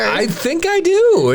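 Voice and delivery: inspector voice. Acted. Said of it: "do you do a good inspector".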